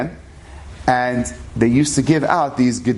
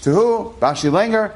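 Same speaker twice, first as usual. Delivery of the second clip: excited father; 5 semitones higher than usual. Retold or imitated. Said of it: "my father was so excited".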